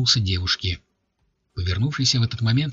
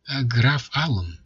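cold female voice; 2 semitones higher, slower than usual. Acted. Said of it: "послышался холодный женский голос".

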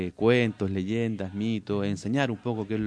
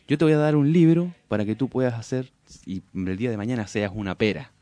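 scheming snake; 4 dB louder than usual. Acted. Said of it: "siempre pensando, eh, mal".

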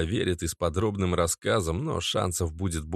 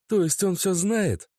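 put-on high young woman's voice, impatient; girlfriend voice; 11 semitones higher than usual. A narrator's reading. Narrator voices Natasha, higher and impatient. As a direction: lift into the girlfriend, curt.

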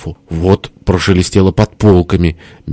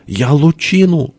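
high, drawn-out insistence; plaintive boast; 9 semitones higher, slower than usual. A narrator's reading. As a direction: insist high, stretching each word. Упрямая похвальба в перепалке. (высоко, протяжно и упрямо)

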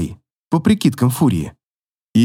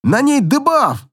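higher, slow, through gritted teeth; 10 semitones higher, slower than usual. Acted. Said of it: "сквозь сцепленные зубы".

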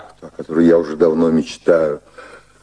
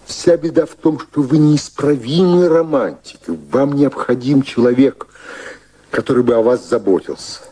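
fond lecture; 5 semitones higher than usual. Acted. Fond scolding of romantic Mary.

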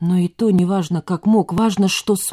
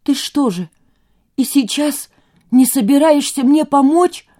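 higher, louder, voice on the edge of breaking; barely controlling his voice; 8 semitones higher, 5 dB louder than usual. A narrator's reading. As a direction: hold back tears and panic as you ask. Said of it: "едва владея своим голосом".

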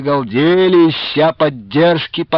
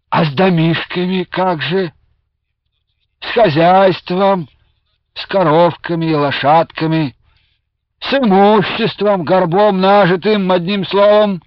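squealing voice; 6 semitones higher than usual. A narrator's reading. Old Cossack complaining to the ataman, high squealing whine. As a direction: whine it out high like a fretful elder. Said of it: "тем же взвизгивающим голосом".

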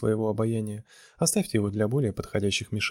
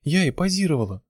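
higher, louder protest; indignant exclamation; 6 semitones higher, 4 dB louder than usual. A narrator's reading. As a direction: burst out in offended surprise. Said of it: "воскликнула она".

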